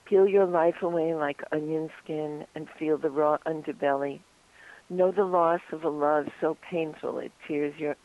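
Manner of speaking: measured, even poetry reading; poem recital. Acted. Poet reads own poem "Bravery" to radio hosts, measured recital. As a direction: recite it evenly, pausing between lines.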